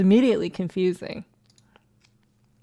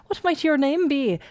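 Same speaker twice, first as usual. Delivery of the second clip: higher, lilting mock-Irish priest; bad Irish accent; 7 semitones higher than usual. Priest asking a little girl's name, bad Irish accent. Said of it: "I apologize for my bad accent".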